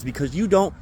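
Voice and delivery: vent, climbing in pitch, fed up with management; angry rant building at his bosses. Real, not acted.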